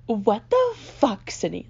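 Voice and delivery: slow, drawn-out mock yell; imitating sister's scream. Sister bursting into the room, mildly mock screaming. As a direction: stretch out the curse like an exasperated sister. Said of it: "Like, she's screaming".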